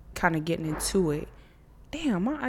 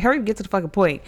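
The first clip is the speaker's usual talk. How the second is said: fast, louder impatient outburst; 3 semitones higher, 6 dB louder, much faster than usual. Retold or imitated. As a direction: rush it out, fed up with waiting. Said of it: "I be like".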